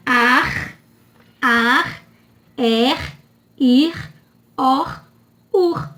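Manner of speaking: AR, ER, IR, OR, UR, each closed on a sounded R; syllable-final R. Shown as a demonstration. Teacher drilling the end-of-syllable R family, final R sounded. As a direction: separate syllables, final R clearly pronounced. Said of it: "R em final de sílaba".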